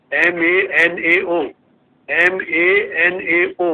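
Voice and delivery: slow, letter by letter for the class; slow dictation. Shown as a demonstration. Teacher spelling a word to students, slow and deliberate. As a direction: spell it out slowly so they can write. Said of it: "एक उदाहरण लिखो".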